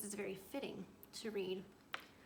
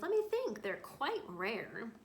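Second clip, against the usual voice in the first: hesitating; 8 dB louder, much slower than usual. Acted. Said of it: "He hesitated".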